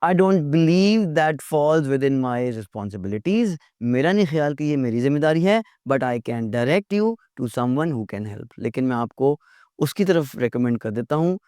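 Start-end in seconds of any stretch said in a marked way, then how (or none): 0.0-3.6 slow, humble refusal; gently. Shown as a demonstration. Teacher modelling a gentle refusal, slow. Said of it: "प्यार से कहें". 5.9-8.5 slow, humble refusal; gently. Shown as a demonstration. Teacher modelling a gentle refusal, slow. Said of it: "प्यार से कहें".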